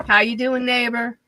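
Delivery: a light touch of customer service voice. Shown as a demonstration. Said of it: "that's my customer service voice".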